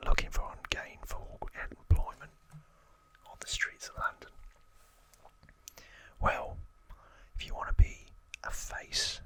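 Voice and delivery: lightly acted, whispered Cockney gang boss; Cockney accent. Gang boss telling a wannabe how to rule, whispered Cockney accent. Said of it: "That's my best Cockney accent".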